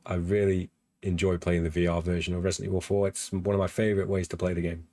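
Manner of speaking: hoarse, voice giving out; hoarse voice, strained and worn out. Real, not acted. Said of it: "I am losing my voice".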